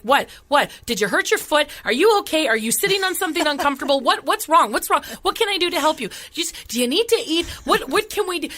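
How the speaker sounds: pepper her with anxious questions; worried girlfriend. Retold or imitated. Girlfriend fussing over her crying partner, high and anxious. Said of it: "she's like".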